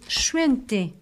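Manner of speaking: "chuente" with a drawn-out sh-like sound; hushing S. Shown as a demonstration. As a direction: lean on the sh of "chuente". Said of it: "Le S est chuente". (« chuente » : son ch bien marqué)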